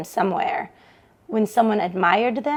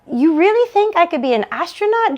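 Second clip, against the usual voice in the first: Joan in disbelief; 7 semitones higher than usual. Acted. Joan asking her sister on the phone, lightly voiced disbelief. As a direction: ask it as if it can't be true.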